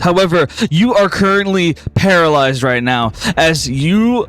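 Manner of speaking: slow, grave storyteller building tension; dramatic scene narration. Acted. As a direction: paint the haunting memory slowly.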